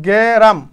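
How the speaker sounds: গেরাম drawn out as "ge-raam"; sounded out. Shown as a demonstration. Teacher counting vowels for students, sounding out গেরাম as "ge-raam". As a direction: open up গেরাম so each vowel is heard.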